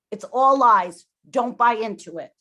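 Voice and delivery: forceful, indignant outburst; real anger. Real, not acted. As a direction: snaps out the accusation in earnest. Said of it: "it makes me very angry".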